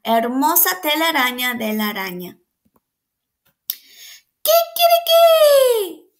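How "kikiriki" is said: high, loud, slow crow; rooster crow. A narrator's reading. Teacher reading to children, loud rooster crow. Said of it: "cacareó el gallo".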